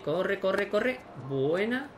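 rising, urgent call; will the ball to keep going; urgent urging. Real, not acted.

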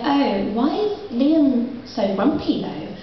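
put-on slow, cooing baby talk to a child. Poet cooing slowly to a grumpy boy. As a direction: coo down at the pouting boy. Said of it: "I was like".

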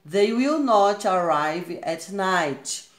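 very slow reading with "will not" in full; slow example with full form. Shown as a demonstration. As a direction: say "will not" separately and slowly. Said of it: "Está aqui na forma contraída".

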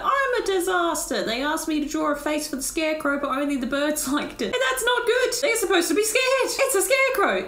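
high, melodramatic wailing artist; hammed-up despair, pitched well above normal; distraught painter. Painter bemoaning a failed scarecrow face, melodramatic.

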